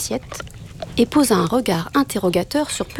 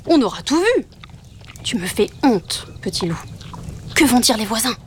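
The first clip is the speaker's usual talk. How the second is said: a lightly voiced growling father; grumbling father wolf; 5 semitones higher than usual. A narrator's reading. Father wolf growling at his son for refusing meat, grumbling. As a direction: huff and lecture the fussy cub.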